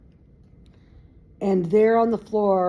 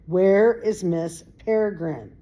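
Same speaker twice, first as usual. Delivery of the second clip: shouting in rage; 4 dB louder than usual. Acted. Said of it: "Emma shouted again, trembling with rage".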